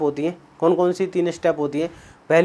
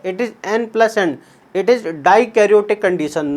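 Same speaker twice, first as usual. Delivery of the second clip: slow emphasis; much slower than usual. Shown as a demonstration. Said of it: "याद रखना".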